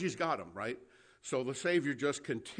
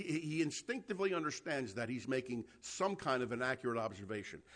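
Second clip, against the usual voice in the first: ordinary talk, nothing marked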